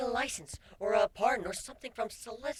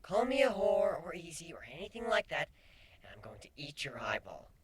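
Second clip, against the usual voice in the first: low, flat threat; flat deadpan; 4 semitones lower than usual. Acted. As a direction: state it deadpan. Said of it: "Kuno stated flatly".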